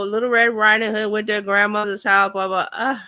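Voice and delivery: bored, level monotone recital; boring storytelling. Shown as a demonstration. Coach showing students how a story can be boring, bored monotone. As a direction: drone through it with no interest.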